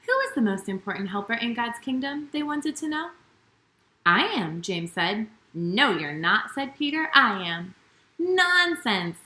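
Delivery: gentle storybook read-aloud, lively with the quotes; reading to children. A narrator's reading. Children's host reading a Bible story to young viewers, storybook read-aloud. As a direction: tell the story as if to a room of little kids.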